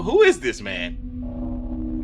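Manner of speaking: slow, breathless whisper of disbelief; stunned whisper. Real, not acted. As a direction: whisper it, amazed. Awed by empty Louvre footage.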